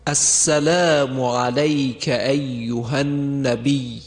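slow chanted السلام علیک with a pure fatha, alayka; prayer salutation chant; correct pronunciation. Shown as a demonstration. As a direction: sing out علیک with a clean a before the y. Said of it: "صحیحش به این صورته".

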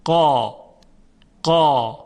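قا with a thick, full alif; heavy qa. Shown as a demonstration. Teacher showing students the heavy قا. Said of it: "تلفظ کنید".

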